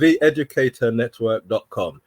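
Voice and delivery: careful web address; slowed down. Shown as a demonstration. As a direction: say it clearly for note-takers. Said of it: "Slow down".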